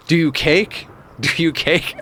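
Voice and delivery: giggling through the question; cracking up while repeating it; laughing drunk catchphrase. Retold or imitated. Retelling his drunk party line, laughing. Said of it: "being like".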